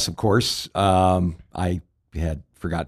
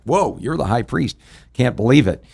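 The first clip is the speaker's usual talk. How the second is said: lightly acted higher-pitched astonishment; mock surprise; 4 semitones higher than usual. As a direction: play mild disbelief at an unexpected recognition. Imagined person surprised at recognition.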